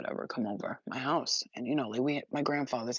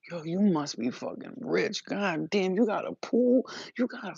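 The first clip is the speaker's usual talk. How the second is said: imitating amazed friends; 4 semitones higher than usual. Friends' amazed retold voices.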